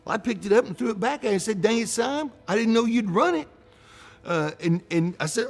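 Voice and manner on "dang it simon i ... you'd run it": mock exasperation. Banker throwing the napkin back at his friend, mock exasperated.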